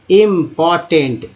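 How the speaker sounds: इंपॉर्टेंट said slowly with each part clear; teacher spelling out इंपॉर्टेंट by ear; slow sounding out. Shown as a demonstration. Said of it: "teacher sounding out the word".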